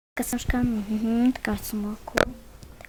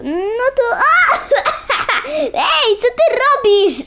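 high squeal into giggles; laughing; 8 semitones higher, slower than usual. Acted. Pony giggling at friend's prank, laughing. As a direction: laugh through the question.

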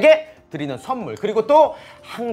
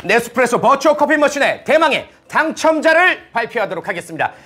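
booming prize announcer. Acted. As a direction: stretch out ladies and gentlemen grandly. Announcing giveaway winner live.

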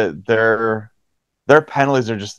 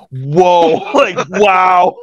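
mock surprise; 7 semitones higher, 4 dB louder, much slower than usual. Mock shock at kid's reply.

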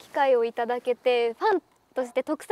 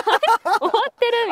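slow mock dismay; 9 semitones higher, 6 dB louder, much slower than usual. Acting out her dismayed reaction.

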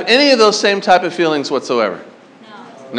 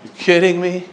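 groaning dismay; 7 dB quieter, slower than usual. Retold or imitated. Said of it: "And be like".

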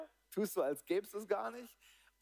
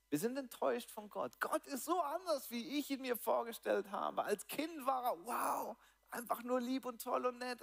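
higher voice of a let-down believer, lightly hammed up; disappointed believer; 5 semitones higher than usual. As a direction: play the disillusioned Christian, a bit overdone. (höher, leicht überzeichneter enttäuschter Gläubiger)

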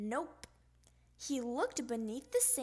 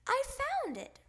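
triumphant; 13 semitones higher than usual. Acted. Child's triumphant find.

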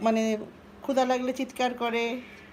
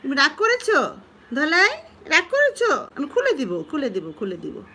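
coaxing a sulky pet; 4 semitones higher, 4 dB louder than usual. Real, not acted. Owner coaxing her sulking pet Dholai with fond questions. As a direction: sweet-talk the pouting one.

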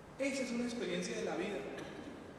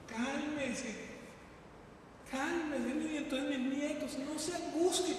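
soft calming; 5 semitones higher, 5 dB quieter, slower than usual. Acted. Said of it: "nos vamos a morir".

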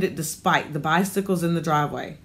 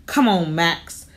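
snapping; 3 dB louder, slower than usual. Acted. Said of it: "she snapped at the dog".

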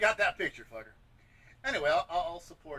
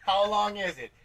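loud, raised call-back question; Carson-skit audience shout; 5 semitones higher, 8 dB louder, slower than usual. Acted. Comic playing along with old Johnny Carson skits, audience shout. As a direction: shout the straight line like a talk-show crowd. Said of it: "the old Johnny Carson skits".

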